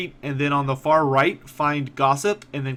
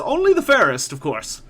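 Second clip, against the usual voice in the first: high flattering voice; flattering merchant; 7 semitones higher, 6 dB louder than usual. Acted. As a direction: lay the flattery on sweetly.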